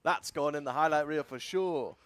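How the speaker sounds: swaggering game hero, lightly voiced; Phoenix impression voice. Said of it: "That's my Phoenix impression".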